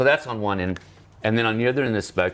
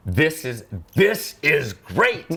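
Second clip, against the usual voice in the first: excited delight; 7 semitones higher, 4 dB louder, much slower than usual. Retold or imitated. Patient excited over trading card.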